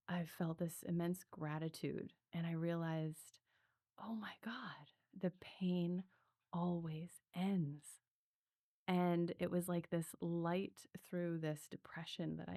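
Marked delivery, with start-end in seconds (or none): 4.0-7.8 hushed, slow whisper of revelation; awed whisper. Retold or imitated. Realizing after breathwork that pain ends, hushed awe.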